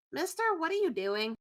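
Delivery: put-on mild puzzled child voice; confused kid. Confused kid asking a stranger searching, mildly puzzled. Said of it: "they're just really confused".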